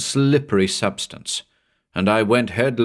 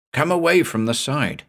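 urgent higher-pitched command; sharp warning; 6 semitones higher than usual. Acted. Narrator dragging the mate back, sharp warning. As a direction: order him back from danger.

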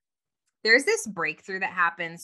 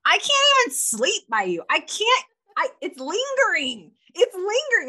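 mock complaining husband; 10 semitones higher, 5 dB louder than usual. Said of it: "he's like".

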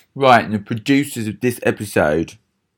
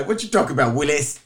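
sitcom catchphrase; 5 semitones higher, faster than usual. Retold or imitated. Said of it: "What are you gonna say?".

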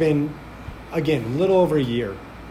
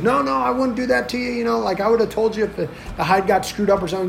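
higher-pitched, hurried imitated denial; reassuring excuse tumbling out faster; defensive protest; 6 semitones higher, faster than usual. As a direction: backpedal quickly, mimicking him. Owner defends himself against accusation.

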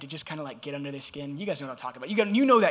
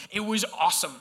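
sarcastic. Real, not acted. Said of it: "the sarcasm just dripping out".

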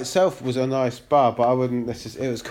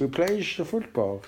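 a calmer take on the fake Dutch accent; Steve McLaren fake Dutch accent; 4 dB quieter than usual. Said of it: "that's how I would do".

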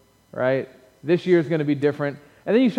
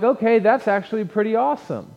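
mildly impressed; 6 semitones higher than usual. Acted. Acts out pleasantly surprised reader.

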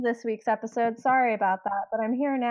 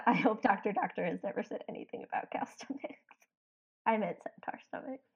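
whispering; 10 dB quieter than usual. Real, not acted. Laughing aside about Doctor Doctor.

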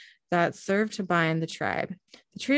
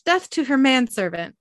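dopey cartoon bellow; 7 semitones higher, 5 dB louder than usual. Orc threatening Dean.

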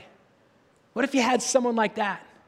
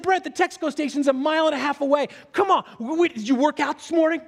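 incredulous; 7 semitones higher than usual. Retold or imitated. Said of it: "And I said".

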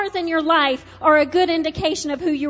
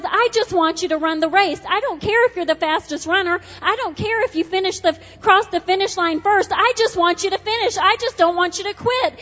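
fervent preaching; 3 semitones higher than usual. Acted. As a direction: plead with them to keep running.

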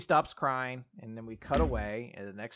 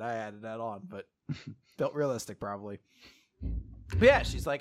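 ordinary talk, nothing marked

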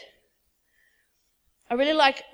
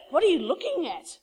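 acted bewilderment, slightly raised pitch; confused; 4 semitones higher than usual. Servant who sees only the enemy army, puzzled. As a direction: ask it as a baffled servant. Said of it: "he's completely confused".

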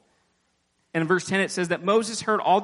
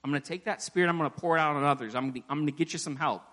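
softer, gentle reassurance to a weary servant; calm him down quietly, a touch quicker; reassuring God; 4 dB quieter, faster than usual. Acted. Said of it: "God's assuring Moses".

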